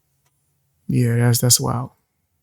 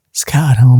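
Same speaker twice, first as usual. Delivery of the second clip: raspy voice. Real, not acted. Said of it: "my raspy voice?".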